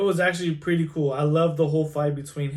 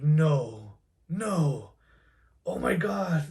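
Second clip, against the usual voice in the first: hushed disbelief; much slower than usual. Retold or imitated. Retelling own shocked reaction.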